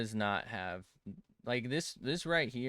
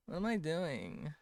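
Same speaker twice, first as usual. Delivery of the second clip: put-on high girly voice; 7 semitones higher than usual. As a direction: question asked much higher in mock girly voice. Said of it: "Why did I sound like this?".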